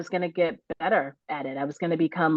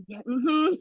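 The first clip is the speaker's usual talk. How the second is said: breathless higher yes; out of breath; 7 semitones higher than usual. Retold or imitated. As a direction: pant out a yes. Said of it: "I can't even talk because I can't breathe".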